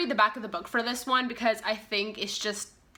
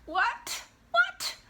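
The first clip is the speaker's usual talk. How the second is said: surprised. Pretend. Mock disbelief at plot.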